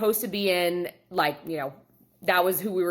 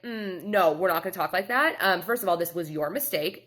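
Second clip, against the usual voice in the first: stern. Shown as a demonstration. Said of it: "I didn't, like, say it like this".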